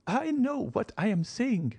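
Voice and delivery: put-on high, imperious old lady's voice; old marchioness. Old marchioness questioning her son-in-law, high and stiff. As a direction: voice the proud old grandmother, pitched high.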